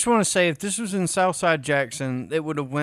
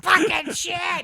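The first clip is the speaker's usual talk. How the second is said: slow high angry shout; frustrated yelling; 14 semitones higher, slower than usual. Retold or imitated. Man at night with broken door, mock shout. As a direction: curse at the rain. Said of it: "yelling obscenities".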